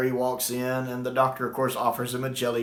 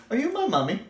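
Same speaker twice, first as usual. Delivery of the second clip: put-on much higher, childlike plea; child's gas mask voice; 11 semitones higher than usual. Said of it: "he's looking at the other soldier".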